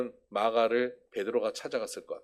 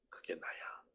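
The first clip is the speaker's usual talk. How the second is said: whisper; 7 semitones lower, 17 dB quieter, slower than usual. Acted. Peter's shameful confession.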